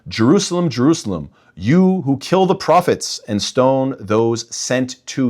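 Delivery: first "Jerusalem" called out high, then slow mournful phrase; lamenting cry. Acted. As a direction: mourn over the city, drawing the words out. Quoting Jesus lamenting Jerusalem.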